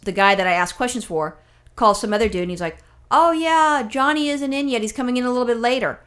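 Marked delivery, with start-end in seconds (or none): 3.1-6.0 higher, lightly mocking clerk voice; imitated clerk. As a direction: mimic a breezy, unbothered employee. Imitates a casual postal worker.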